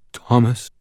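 muttered through cold shivers; shivering voice, teeth chattering. A narrator's reading. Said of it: "I muttered to myself, shivering".

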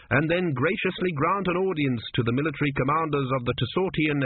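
a lightly voiced officious court priest; fussy priest. Priest reading out the queen's duties, lightly pompous. Kumi lists the royal duties.

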